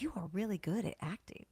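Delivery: hushed, confiding whisper; whispered compliment. Retold or imitated. Sissy Spacek leaning over, whispering praise to Nikki. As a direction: lean in and whisper it like a secret.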